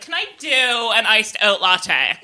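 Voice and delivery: slow, drawn-out American order; American customer. Retold or imitated. Mocking American students ordering coffee, slow drawl. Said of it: "American students who'll come and be like".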